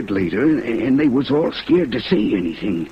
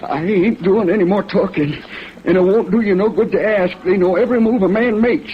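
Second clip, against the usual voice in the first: desperate to get away, voice climbing up; scared to death; 7 semitones higher than usual. Acted. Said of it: "He was scared to death".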